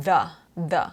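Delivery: 'the' as a short relaxed 'thuh'; schwa. Shown as a demonstration. Teacher showing schwa in small words, 'the' as 'thuh'. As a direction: keep the vowel of 'the' loose. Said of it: "ก็เป็นเสียงชวา".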